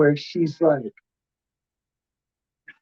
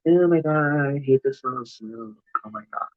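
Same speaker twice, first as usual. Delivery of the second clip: fading softer as if through a covered mouth; mock prissy complaint; 4 dB quieter than usual. Imitating the singer complaining about the blunt smoke, muffled and fading. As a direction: whine through a hand over the mouth. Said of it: "she covers her mouth like".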